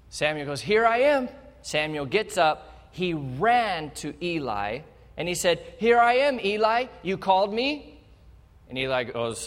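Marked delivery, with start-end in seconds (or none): 0.6-1.3 eager reply. Acted. Boy Samuel answering eagerly. 5.8-8.0 put-on eager boy. Samuel runs to Eli.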